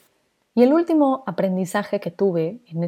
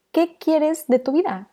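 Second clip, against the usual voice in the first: asking herself; 7 semitones higher, slower than usual. Retold or imitated. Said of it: "Y dije".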